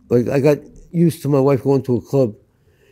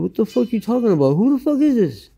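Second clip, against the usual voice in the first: retold angry retort; 10 semitones higher than usual. Angry reply to wife's lover.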